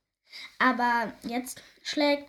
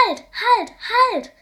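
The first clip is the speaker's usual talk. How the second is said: high, loud urgent calls; teacher shouting to stop the tumbling angels; calling halt; 11 semitones higher, 10 dB louder than usual. A narrator's reading. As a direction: call out to stop them, fast and sharp. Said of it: "ruft Engel Malfriede".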